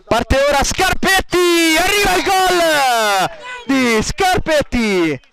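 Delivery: high, drawn-out goal call; excited goal call. Real, not acted.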